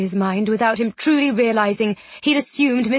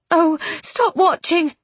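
higher, slow, exasperated order; exasperated scolding; 7 semitones higher, slower than usual. A narrator's reading. Miss Eyre scolding the watching ghost, exasperated. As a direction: scold like an impatient woman.

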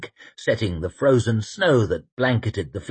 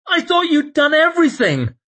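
dismayed man's voice; 5 dB louder than usual. Acted. Temple's dismayed retort.

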